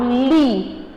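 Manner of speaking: "li" firme e alongado; sílaba mais forte. Shown as a demonstration. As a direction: destaque "li" como sílaba tônica. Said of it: "foi a minha palavra mais forte". ("li" com mais força)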